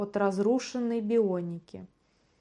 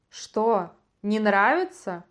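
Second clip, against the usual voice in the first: mocking taunt; 3 dB louder, slower than usual. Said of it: "бросил Антигон".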